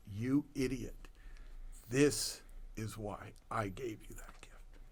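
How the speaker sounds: low, hushed inner voice; hushed epiphany. Retold or imitated. Acting out the epiphany behind the gift, hushed revelation. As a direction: drop low and soft for the realisation. Voicing his quiet epiphany.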